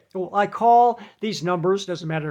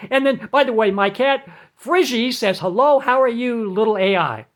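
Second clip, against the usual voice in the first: loud, rushed nonsense rambling to confuse the bot; rambling gibberish; 4 semitones higher, 3 dB louder than usual. Shown as a demonstration. Caller rambling nonsense at the phone bot to get a human, loud and rushed. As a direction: babble on loudly, barking agent now in between. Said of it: "maybe a little long, but it's a lot of fun".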